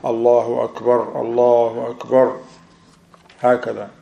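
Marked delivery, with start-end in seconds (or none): 0.0-2.4 loud takbir. Shown as a demonstration. Teacher showing students the men's takbir, said out loud. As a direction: proclaim each Akbar out, full voice. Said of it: "they say it loud with loud voice".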